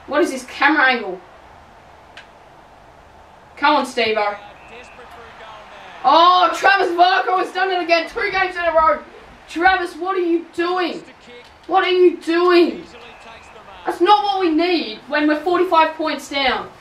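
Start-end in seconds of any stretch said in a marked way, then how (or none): 6.0-15.9 exasperated outcry. Real, not acted. Player's mistake, exasperated cry.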